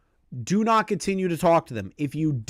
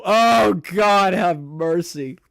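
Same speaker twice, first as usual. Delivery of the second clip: loud cry, fading and slowing; appalled plea; 2 semitones higher, 5 dB louder, much slower than usual. Real, not acted. Streamer appalled by the message just read, loud plea. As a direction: cry out for mercy, then sink.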